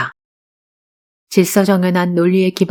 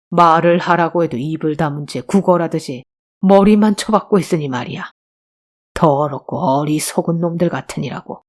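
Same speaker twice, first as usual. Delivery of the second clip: lightly voiced contemptuous police officer; scornful police chief. Police chief insulting cowed beggars, scornful. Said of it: "엄청 열받는 말을 던지는 거예요".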